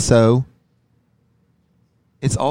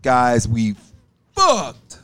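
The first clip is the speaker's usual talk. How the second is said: lower, fuller intro with belly; deep belly voice; much slower than usual. Shown as a demonstration. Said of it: "you gotta get the right tone".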